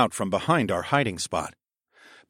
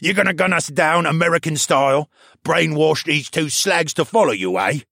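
scornful snort; 6 semitones higher, 4 dB louder than usual. A narrator's reading. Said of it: "Baxter snorted".

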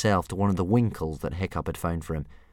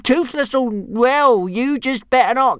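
very high, loud squeaky threats; a tiny dragon trying to sound terrifying, then losing nerve; small dragon threatening the departed bullies; mock-menacing little dragon; 10 dB louder than usual. A narrator's reading. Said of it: "in a menacing manner".

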